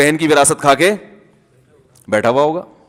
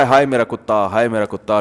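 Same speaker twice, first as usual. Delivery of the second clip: lower, softer mock lament over the dog; mock wailing; 7 semitones lower, 4 dB quieter than usual. Preacher mimics dog owner, hammed-up wail. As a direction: imitate a man wailing for his dog. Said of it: "یہ رو رہا ہے".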